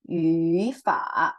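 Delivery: Yu fa slowly, each syllable with its full dipping tone; unchanged tones. Shown as a demonstration. Teacher showing an exception to tone change, careful Yu fa. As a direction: dip and rise on Yu, then dip on fa. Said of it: "yang tidak berubah".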